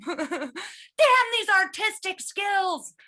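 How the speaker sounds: slow, drawn-out mock boast; mock proud. Comic boasts of skills, slow mock pride. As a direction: savor the brag slowly. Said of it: "too good at character work".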